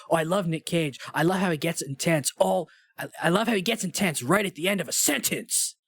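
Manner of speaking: lightly imitated intensity surging at phrase ends; a hint of overdramatic actor, punching the final words; Nick Cage. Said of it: "really good Nick Cage impression".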